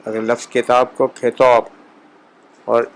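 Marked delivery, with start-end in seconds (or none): 1.1-1.6 کھیتوب said khetob with aspirated kh; Persian kh sound. Shown as a demonstration. Teacher repeating Persian کتاب with aspirated kh. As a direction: breathe out hard on کھیتوب. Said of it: "کھے کی آواز ڈال کے".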